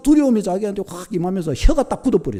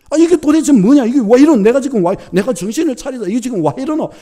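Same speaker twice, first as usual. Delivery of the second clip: higher and louder, half-acted rapture; overwhelmed exclamation; 6 semitones higher, 4 dB louder than usual. Convert overwhelmed by beauty under the sky, loud wondering cry. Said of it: "울어버렸대요".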